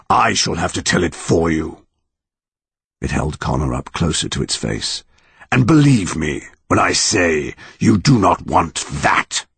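ominous monster voice. Acted. Monster threatens.

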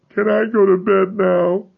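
small dazed voice. Acted. Dazed child after ordeal.

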